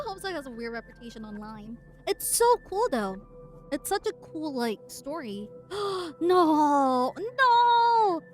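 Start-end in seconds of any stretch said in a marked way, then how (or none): 5.7-8.2 loud, high dismayed shout; shocked cry. Real, not acted. Reacting to the story.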